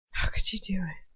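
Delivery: whispered, almost matter-of-fact; simple, hushed question. A narrator's reading. Narrator to her parents' killer, hushed and simple. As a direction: ask it plainly under the breath. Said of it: "I ask almost simply".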